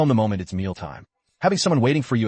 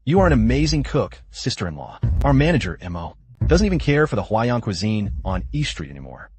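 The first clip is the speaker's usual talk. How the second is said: overacted anime dub. Coworker gushing over manager's wife.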